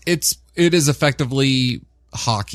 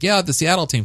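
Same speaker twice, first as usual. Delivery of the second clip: high quoted voice; 9 semitones higher than usual. Retold or imitated. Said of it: "when I was like".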